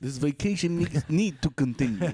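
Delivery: put-on Russian accent. Acting out a character who threatens over a price: russian accent. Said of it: "Why is he Russian?".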